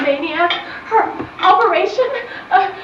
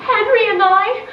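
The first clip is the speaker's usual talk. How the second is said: crying confession. Acted. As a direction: confess it through tears. Tearful wedding confession.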